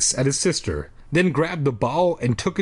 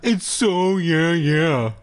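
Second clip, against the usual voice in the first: higher mocking echo; pitched-up copycat voice; annoying mimicry; 4 semitones higher, much slower than usual. Shown as a demonstration. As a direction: parrot the listener obnoxiously. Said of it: "repeating things that people say in an annoying tone".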